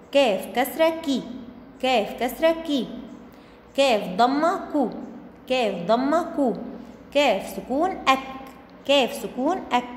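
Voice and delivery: name letter and mark, then a quick "كي", "كو" or "أك"; short vowel demo. Shown as a demonstration. Teacher drilling first graders on short sounds, "كي", "كو", "أك" said quickly. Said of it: "أنا بنطقها بسرعة، بخطفها".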